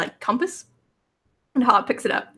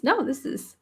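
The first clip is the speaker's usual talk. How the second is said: higher, cute little robot voice; chirpy tiny automaton, higher pitched; 5 semitones higher than usual. Acted. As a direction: play a sweet little copper robot. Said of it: "And this is".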